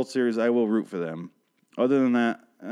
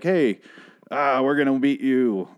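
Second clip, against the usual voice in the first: louder, slow, good-natured teasing; playful taunt; 2 semitones higher, 4 dB louder, slower than usual. Retold or imitated. Fan teasing a rival team's fan, playful. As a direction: rib the rival fan cheerfully. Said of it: "why can't I just be like".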